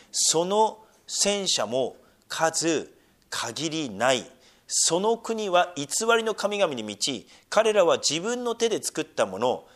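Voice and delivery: slow, measured reading of Isaiah; preacher reading Isaiah slowly from the pulpit; scripture reading. Acted. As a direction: read the verse deliberately, like scripture. Reads Isaiah aloud.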